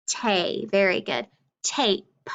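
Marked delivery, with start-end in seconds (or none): 0.1-0.6 "tay", take with no k at the end; final sound dropped. Shown as a demonstration. Teacher showing take without its last sound, final sound dropped. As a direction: leave "tay" open, without the closing k. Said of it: "Take without the K is just".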